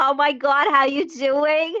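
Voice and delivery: put-on really high, slow general New York accent. Showing how she talked while greeting people, in a really high general New York accent. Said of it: "She talked like this".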